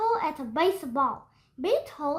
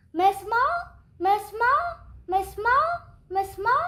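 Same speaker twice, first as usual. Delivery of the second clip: echoing call; 5 semitones higher than usual. Acted. Gym echoes the call.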